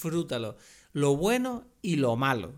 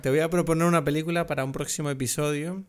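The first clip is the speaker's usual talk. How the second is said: slurring a little from the alcohol. Real, not acted. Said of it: "estoy súper borracho".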